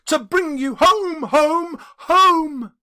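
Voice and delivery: put-on high, loud and bubbling little girl; gleeful child. Little Fan gleefully telling her brother he's going home. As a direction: burst in full of joy for her brother. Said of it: "brimful of glee".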